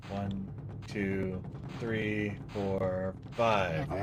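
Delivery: low, very quiet counting; hushed, measured count under the breath; concentrating. Real, not acted. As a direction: count softly to yourself. Counting hits to self, concentrating.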